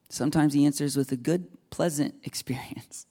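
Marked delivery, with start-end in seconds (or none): 1.7-3.0 whispered with a laugh. Real, not acted. Whispered aside mid-sentence.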